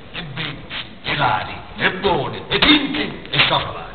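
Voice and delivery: rhythmic roll-call of rhyming dialect words; comic stage recitation. Acted. Poet greets ladies and gentlemen in the audience, comic recitation. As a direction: declaim the greeting in rhythmic runs with pauses.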